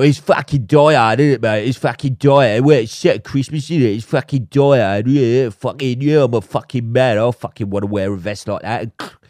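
loud, brash bloke voice mocking the lads; mocking a laddish film bore. Podcaster mocking men who love Die Hard, brash loud impression. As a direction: sneer out the meathead Die Hard fan. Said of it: "you go".

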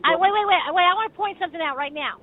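woman grows angry, cuts him off; getting angry. Real, not acted. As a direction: cut in hard and firm. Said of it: "She's getting angry".

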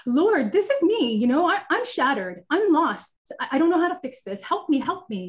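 a touch of retold panic in a pleading prayer; mildly panicked plea to the Lord. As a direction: plead for help, lightly reliving the panic. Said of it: "feeling panic and turning to him and saying".

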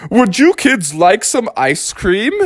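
high-pitched character voice; friendly stranger. A narrator's reading. People next to them offering kids ice cream, high voice.

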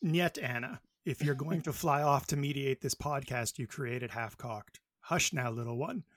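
put-on Colossus Russian accent. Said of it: "my not attempting Russian whatsoever accent voice".

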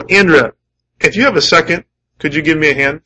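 calm, casual ask to his wife; easy, no-rush favour; polite request. Shown as a demonstration. Husband casually asking his wife for a hand, calm. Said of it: "And there are times when I say".

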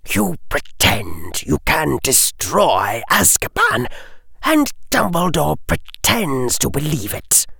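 put-on Lucius Malfoy questions the boy coldly; cold aristocrat.

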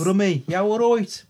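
lightly attempted Brummie accent; Birmingham accent attempt. Shown as a demonstration. Co-host trying out the suggested Birmingham accent. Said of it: "That's a Birmingham accent".

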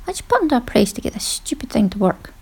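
baffled at a machine, whispering to herself; exasperated thought. Retold or imitated. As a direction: mutter it under your breath in frustration. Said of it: "my expression of".

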